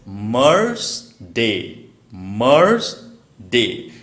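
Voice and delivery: slow, stretched মার্স, then a separate ডে; drawn-out beat. Shown as a demonstration. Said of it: "এইভাবে হবে". (টেনে টেনে মার্স, তারপর ডে)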